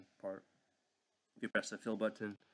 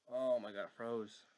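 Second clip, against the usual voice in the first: louder, exasperated outburst; 2 semitones higher, 5 dB louder than usual. Real, not acted. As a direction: groan at a frozen computer. The computer freezes during the demo.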